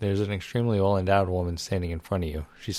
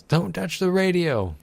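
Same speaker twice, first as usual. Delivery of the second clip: slow, much higher yelled warning; yelling dad; 10 semitones higher, 4 dB louder, slower than usual. Acted. Father woken at beach yells at baby, slow angry yell. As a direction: bellow it like a startled father. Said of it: "He yells".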